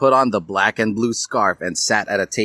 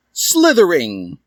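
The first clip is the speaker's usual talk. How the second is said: slow loud announcement; 8 semitones higher, 5 dB louder, slower than usual. Acted. Sorting hat announces.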